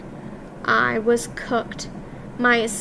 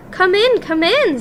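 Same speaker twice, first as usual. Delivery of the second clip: high, louder impatient snap; snapped; 7 semitones higher, 4 dB louder than usual. A narrator's reading. Grand High Witch snapping at dithering witches to come in. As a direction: snap it out, no patience. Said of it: "snapped the Grand High Witch".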